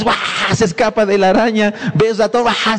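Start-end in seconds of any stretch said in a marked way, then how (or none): 0.0-0.2 imitated fright. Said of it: "el que le tiene miedo". 2.4-2.8 imitated fright. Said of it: "el que le tiene miedo".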